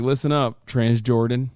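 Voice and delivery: lightly deepened mock lecturing voice; a hint of a lecturing pundit; mock lecturer. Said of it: "he's like".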